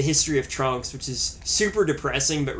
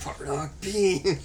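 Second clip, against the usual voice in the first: attack name yell; 4 semitones higher, much slower than usual. Pretend. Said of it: "yelling of special attack moves".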